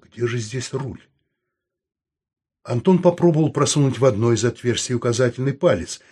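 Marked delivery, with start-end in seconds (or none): 0.0-1.0 softly muttered question; muttering. A narrator's reading. Саул hunts for the steering wheel, muttering quietly. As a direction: ask it quietly, half to yourself. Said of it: "бормотал Саул".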